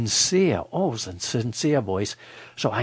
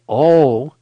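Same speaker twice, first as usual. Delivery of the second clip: loud, long "oh" re-enacted; excited exclamation; 2 semitones higher, 10 dB louder than usual. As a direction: belt out the "oh" as if thrilled. Repeats his excited exclamation.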